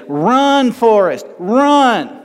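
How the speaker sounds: high, drawn-out call to run; Forrest Gump shout. Retold or imitated. Preacher quoting Forrest Gump to the congregation, high urgent call. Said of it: "Go back and watch Forrest Gump again".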